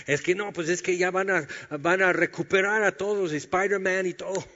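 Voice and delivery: chuckling through a silly excuse; laughing excuse. Pretend. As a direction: sell the silly excuse with a grin. Imagined excuse continues, laughing.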